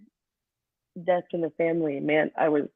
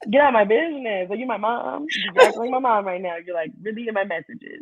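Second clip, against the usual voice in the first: mock sassy, pitched higher; sassy retort; 4 semitones higher than usual. Teacher joking back at nosy students, sassy and higher. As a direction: brush them off with playful sass.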